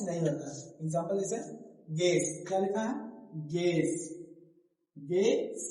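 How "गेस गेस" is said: गेस said "gess"; no w or u glide in गेस; silent u. Shown as a demonstration. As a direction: say गेस with g straight into e. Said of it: "लेकिन यू जो यहाँ है".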